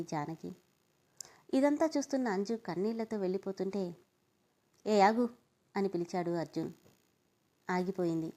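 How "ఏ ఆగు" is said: sharp louder call to stop her. Acted. Brother calling back his tearful sister, loud stop. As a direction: halt her as she walks off, louder.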